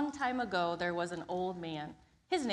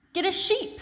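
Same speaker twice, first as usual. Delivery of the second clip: put-on wise old sage; 11 semitones higher, 7 dB louder than usual. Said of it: "said the wise man".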